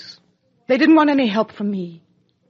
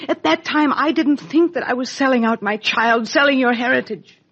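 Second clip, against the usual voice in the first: higher and louder, rushing to justify herself; pleading confession; 5 semitones higher, 3 dB louder than usual. Acted. Mother confessing to her daughter, rising impassioned plea.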